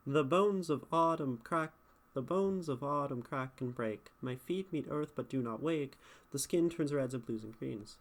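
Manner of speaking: "bones", "crack", "break" landing on a steady beat; metrical scanning. Shown as a demonstration. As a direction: scan "The bones of autumn" in even iambs. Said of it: "So you're not doing pentameter".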